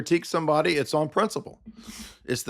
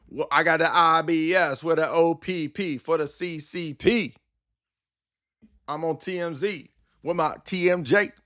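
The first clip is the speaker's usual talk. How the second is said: slightly higher parody rap delivery; lightly voiced mock rapper; 3 semitones higher than usual. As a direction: toss off a dumb rhyme. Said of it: "that's my impression of bear comedy".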